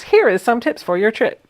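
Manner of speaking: lightly imitated Metro announcement girl; mild parody of a recorded announcer; slightly exaggerated announcer. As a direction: quote the station message, a little hammed up. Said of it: "In a slightly more ghetto-fied voice".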